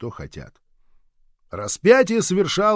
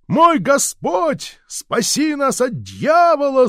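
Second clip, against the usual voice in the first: high, loud, slow wail; wailing cry; 12 semitones higher, 5 dB louder, slower than usual. A narrator's reading. Grandmother wailing for salvation from the devil, high, loud and slow. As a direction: howl it to heaven, stretching the first words. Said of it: "завопила бабушка".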